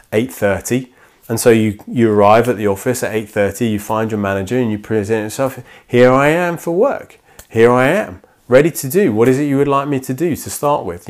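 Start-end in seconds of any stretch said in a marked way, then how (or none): 5.9-11.1 mock-eager, slightly lifted voice; keen new employee. New worker reporting to the manager, keen. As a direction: present yourself for duty, ready for orders.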